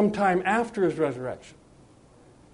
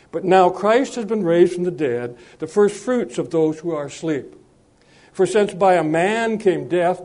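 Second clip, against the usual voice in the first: measured, solemn reading from the Bible; formal Bible reading to the congregation; scripture reading; 4 dB louder than usual. Acted. Reads scripture passage aloud.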